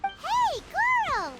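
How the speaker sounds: high call across the camp; bright calling-out greeting. Acted. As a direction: shout his name to get attention. Paimon calls out to Goro.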